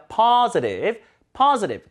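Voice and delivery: positive as "PAH-zuh-riv"; weakened middle. Shown as a demonstration. Teacher modelling, positive with z plus schwa. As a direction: stress the start of positive, flap the t. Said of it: "으를 붙여야 되죠".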